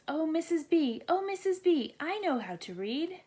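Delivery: high, loud pleading oh Missus B; eager show-off. A narrator's reading. Rachel begging the teacher at story time, eager. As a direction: wave for the teacher's attention. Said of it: "Rachel says".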